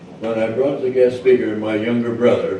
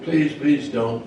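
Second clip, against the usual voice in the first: slow, slightly raised plea; pleading; 4 semitones higher, slower than usual. Acted. Mosquito begs hunters not to kill him, pleading. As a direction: beg slowly for mercy, mildly acted.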